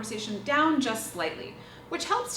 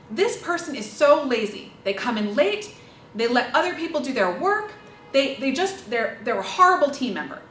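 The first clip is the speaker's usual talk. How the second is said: complaining colleague; 5 dB louder than usual. Shown as a demonstration. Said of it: "For instance".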